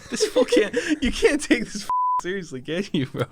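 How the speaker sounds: cracking up in disbelief; laughing. Real, not acted. Laughing at friend roasting.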